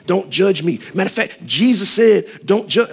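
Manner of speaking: high-pitched mock protest; indignant objection. Mimics people objecting to judgment.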